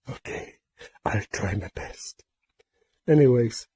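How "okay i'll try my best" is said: father voice. Pretend. Father fish answers quietly.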